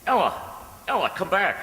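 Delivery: loud shout after her; calling out. Acted. Snell shouting after Ella as she runs away. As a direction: call her back across the room.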